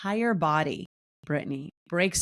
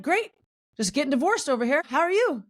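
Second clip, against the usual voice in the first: mock cheerful sarcasm; 9 semitones higher than usual. Her own sarcastic reply.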